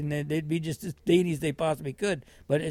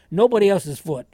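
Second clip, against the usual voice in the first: scolding nurse; 4 semitones higher, 9 dB louder than usual. Retold or imitated.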